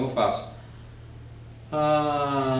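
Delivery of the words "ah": vocal fry. Shown as a demonstration. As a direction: let the voice crackle down into fry. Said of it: "vou demonstrar aqui pra você". (vocal fry relaxado)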